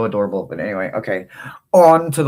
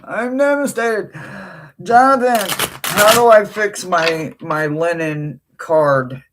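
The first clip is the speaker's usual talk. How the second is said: much higher, louder whining "devastated"; mock-whiny plea; 7 semitones higher, 4 dB louder than usual. Real, not acted. To Jonathan in chat about her card, a high whiny plea. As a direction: whine it to a friend for sympathy.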